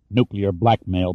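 slow, thick, spat out in disgust; spat thickly. Acted. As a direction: spit out Nuclear blackmail slowly. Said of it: "Pitt spat thickly".

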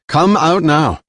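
loud, high order, falling hard on come; firm command. Acted. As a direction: order them out, final warning. Jilan repeats her order.

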